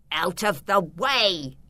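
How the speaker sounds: slow, grumbling villain voice; muttered order. A narrator's reading. Filbert pushes past Beatrice, muttering. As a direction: mutter it roughly as a command. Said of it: "muttered Filbert".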